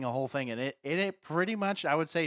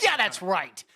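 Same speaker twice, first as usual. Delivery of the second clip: louder hyped shout of agreement; screaming; 4 semitones higher, 7 dB louder, slower than usual. Real, not acted. Cheering co-host's catchphrase, excited shout. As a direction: yell it like a fan in the stands. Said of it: "Yes, I'm screaming".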